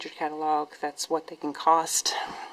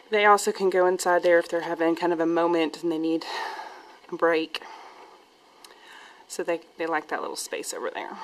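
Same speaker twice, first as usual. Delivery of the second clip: out of breath. Real, not acted. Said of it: "Sorry, I'm out of breath".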